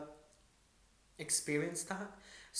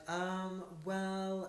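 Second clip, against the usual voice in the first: higher, drawn-out "um, well" on a held level tone; imitating hesitant agent; 5 semitones higher than usual. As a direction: mimic a stalling, noncommittal agent. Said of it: "that's how she kind of was talking".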